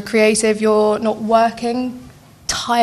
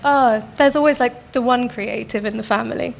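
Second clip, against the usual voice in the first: condescending intonation; 2 semitones higher than usual. Retold or imitated. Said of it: "It's never said with a good intonation".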